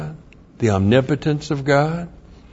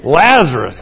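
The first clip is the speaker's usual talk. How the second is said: calling out; 3 semitones higher, 4 dB louder than usual. Retold or imitated. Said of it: "So he had to say".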